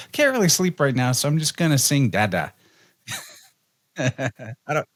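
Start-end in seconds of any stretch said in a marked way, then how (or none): 0.1-2.5 put-on baby's voice. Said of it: "She's like".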